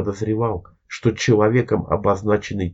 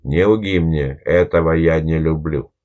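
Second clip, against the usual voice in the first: menacing hiss; 2 semitones lower than usual. Acted. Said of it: "угрожающе прошипел".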